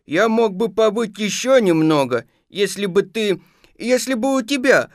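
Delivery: high, hinting bear voice; faltering, hesitant. Acted. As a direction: falter upward, leaving the wish half said. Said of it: "запинался он".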